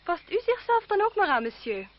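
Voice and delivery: high, loud cutting reply; sharp retort. Acted. Cousin retorting to André, high and sharp. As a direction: snap back, stung and haughty.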